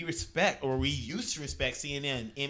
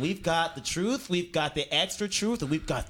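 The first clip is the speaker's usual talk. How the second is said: put-on rapid old-time reporter; 3 semitones higher, 5 dB louder than usual. Newsboy selling to customer.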